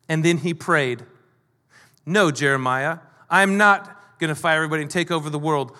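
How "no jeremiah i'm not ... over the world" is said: understated firm denial, falling at the end; simple emphatic truth. Acted. Nehemiah answering a false rumour, simple and emphatic. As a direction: state it plainly and settle it. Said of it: "It was a very simple, emphatic truth".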